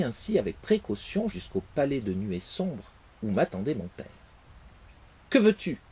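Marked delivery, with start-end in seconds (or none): 5.3-5.8 loud, higher stern demand; angry father. Acted. The wind's father confronts his son, loud and angry. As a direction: bark the question at your son.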